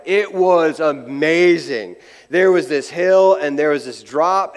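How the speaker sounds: slow, drawn-out gush; mock awestruck rider. Rider back from a new ride telling friends, gushing slowly. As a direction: play up the amazement, stretching it out.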